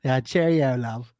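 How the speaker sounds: mock British accent. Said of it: "talk like this".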